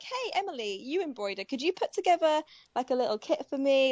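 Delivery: a hint of a friend's casual, coaxing request; friend asking a favour. Imagined friend asking designer for a little kit, lightly acted. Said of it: "if my friend was like".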